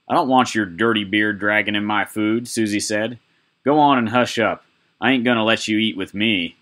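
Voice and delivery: snotty brat brushing him off; rude spoiled girl. Acted.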